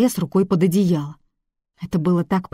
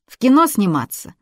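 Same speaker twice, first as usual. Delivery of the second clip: put-on girl blurting out her dream, louder; blurted out; 5 semitones higher, 6 dB louder than usual. A narrator's reading. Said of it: "выпалила она".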